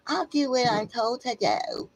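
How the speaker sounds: whispered, unvoiced, like a meek drone; mock obedient whisper. Ranting vlogger mocks people trained to obey, whispering. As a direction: breathe it out like a cowed follower.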